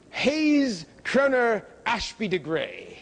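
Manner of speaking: put-on slow, plummy British accent on the new name; mock British accent. Lecturer mocks the general's adopted British name, slow British accent. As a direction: drawl the name out like an English toff in a British accent. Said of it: "he adopted a British accent".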